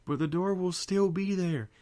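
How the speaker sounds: high, loud frantic protest; panicked protest. Acted. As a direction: wail it in helpless panic. Twilight panics over door.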